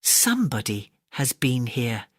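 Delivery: a lightly voiced father bear, grumbling low; growling father bear. Father bear finding an intruder, mild low growl. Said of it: "Father Bear growled".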